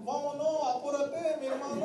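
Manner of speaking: put-on Mexican Spanish accent. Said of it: "Espanhol mexicano".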